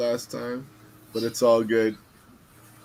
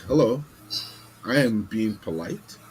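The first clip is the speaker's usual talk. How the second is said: firm polite voice; 3 semitones higher, 6 dB louder than usual. Retold or imitated. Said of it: "I use that kind of same kind of voice".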